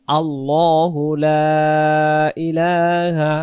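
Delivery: আল্লাহু said slowly with a thick, heavy lam. Shown as a demonstration. Teacher showing students the heavy lam in আল্লাহু. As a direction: stretch আল্লাহু লা ইলাহা, lam full and heavy. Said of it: "এই জন্য আমরা বলবো".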